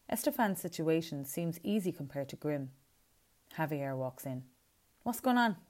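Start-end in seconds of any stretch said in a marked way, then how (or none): 5.0-5.6 surprised. A narrator's reading. Javier walks in.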